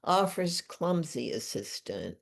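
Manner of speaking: measured poetry recital with deliberate pauses; poem reading. Acted. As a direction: read your own poem aloud, phrase by phrase. Reads own poem aloud.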